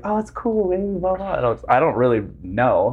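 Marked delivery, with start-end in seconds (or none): 0.0-1.3 high-pitched mock girlfriend voice; imitated girl. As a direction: mimic her brushing it off, pitched way up. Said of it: "she was just like".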